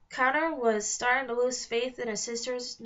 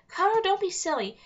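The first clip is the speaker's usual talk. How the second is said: reassuring; 9 semitones higher, 5 dB louder than usual. Acted. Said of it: "Alex reassured".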